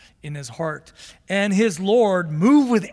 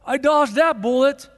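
relieved whoop; 6 dB louder than usual. Retold or imitated. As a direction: cheer like you just got away with it. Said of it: "He's like".

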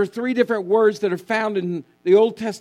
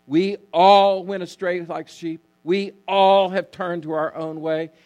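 "all" held out each time; stress on all. Shown as a demonstration. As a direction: lean on every "all". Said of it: "notice the emphasis on all".

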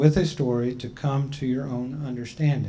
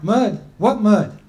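higher, amused feigned surprise with a laugh; playful innocence; 6 semitones higher, 5 dB louder, slower than usual. Acted. Otter, caught with a fish, pretending not to know about the mud. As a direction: play dumb with a chuckle.

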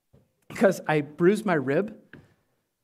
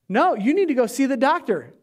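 higher-pitched imitation of a scolding; mock nagging, insisting he listen; retold family telling-off; insistent rebuke; 6 semitones higher than usual. Retells family rebuking him.

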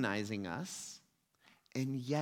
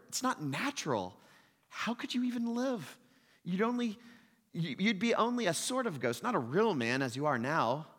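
higher, louder urgent lizard voice; whispering lizard; 4 semitones higher, 3 dB louder than usual. Retold or imitated. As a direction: hiss warnings into his ear. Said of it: "this is what the lizard says".

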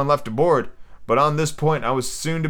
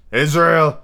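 pirate voice; 3 semitones higher, 5 dB louder than usual. Acted. Silver scolding.

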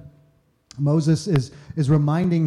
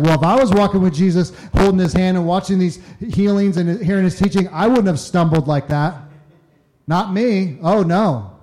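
mock self-righteous boast; 4 semitones higher, 6 dB louder than usual.

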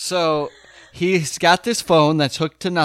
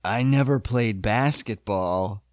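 Bull impression; 6 semitones lower, 4 dB quieter than usual. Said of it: "Please deliver it like Bull did".

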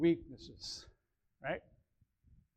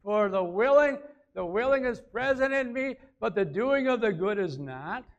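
scripture reading; 3 semitones higher, 3 dB louder than usual. Real, not acted. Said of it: "I read the verse".

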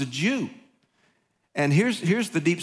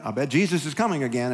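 mock bored veteran; 3 semitones lower, faster than usual. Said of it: "you go".

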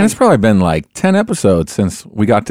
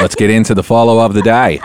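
Australian accent. Shown as a demonstration. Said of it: "I wanted you to say it in your accent".

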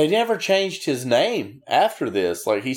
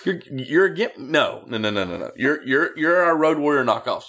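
a boss sneering at a copycat; mock Bill Watts; 4 semitones higher than usual. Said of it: "He's like".

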